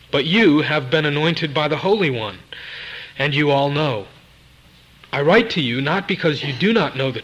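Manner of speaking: firm, measured reading from the pulpit; scripture reading. Real, not acted. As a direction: read the verse aloud with emphatic phrasing. Reads scripture aloud at length.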